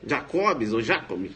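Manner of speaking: "Jacobs" read with a Portuguese J, stress wavering; misreading as spelt. Shown as a demonstration. Teacher shows how students read the name, misread pronunciation. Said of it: "tá lá Jacobs".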